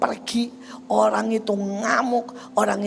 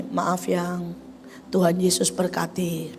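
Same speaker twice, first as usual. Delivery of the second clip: soft calm answer to an angry husband; a wife gently calming her husband; gentle reply; 4 semitones lower, 5 dB quieter, slower than usual. Retold or imitated. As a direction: reassure him softly. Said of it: "Bilang ini".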